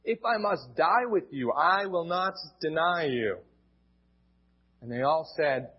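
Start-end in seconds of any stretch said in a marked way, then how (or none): 0.0-3.4 emphatic. Acted. Peter insisting to Jesus he will never deny him, emphatic. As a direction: stake everything on the promise. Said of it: "But he said emphatically".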